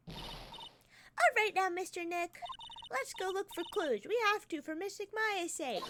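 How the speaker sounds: brightly rally the detective; high eager voice. Acted. Voicing upbeat girl character.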